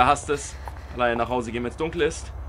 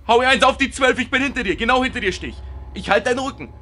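higher, louder cheeky egging on; mock brave cheer; 6 semitones higher, 4 dB louder than usual. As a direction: play the coward who pretends courage. (gespielt mutig, höher)

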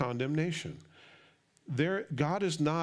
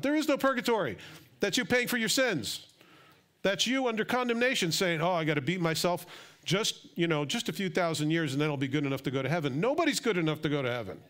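excited preaching; 5 semitones higher than usual. Real, not acted. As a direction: let the excitement run away with the sermon. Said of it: "Sorry, I get excited".

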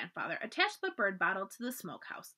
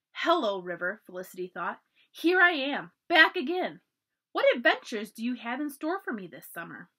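excited; 2 semitones higher, 5 dB louder than usual. Acted. Child greeting the river excitedly.

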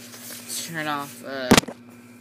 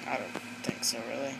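whisper; 4 semitones lower, 10 dB quieter than usual. Acted. Character mutters doubtfully.

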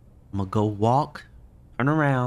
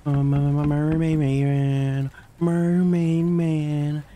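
slow, drawn-out, higher wailing call; mock plea to Mermaid Man; 4 semitones higher, much slower than usual. Scared gamer begging a cartoon hero, slow high wail. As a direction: cry out slowly for a hero. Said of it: "God, I need your help".

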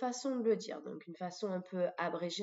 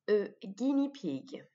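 slow model pronunciation; slower than usual. Shown as a demonstration. Teacher giving vocabulary to repeat, slow model pronunciation. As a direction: say "guinea pig" slowly for learners. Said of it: "de répéter le vocabulaire après moi".

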